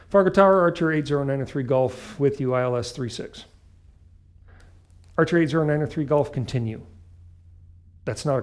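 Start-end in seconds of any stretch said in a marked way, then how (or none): 0.1-3.4 pilot over the radio. Retold or imitated. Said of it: "I wait". 5.2-6.8 quick terse tower reply; controller over the radio. Retold or imitated. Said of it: "tower reply".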